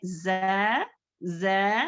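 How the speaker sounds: जै light and thin, fronted vowel; thin zay. Shown as a demonstration. Teacher naming a thin letter, then demonstrating it lightly. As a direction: hold जै long with the tongue low. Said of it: "बारीक पढ़े जाने वाले हुर्फों में से".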